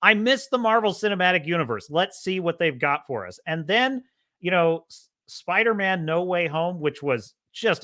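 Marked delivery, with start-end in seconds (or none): 0.0-3.4 retold excitement. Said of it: "I was excited".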